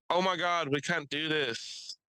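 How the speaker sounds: a mock-innocent girl, hammed up; mock girl protest. Mocking the girl who cornered the kid, fake shocked.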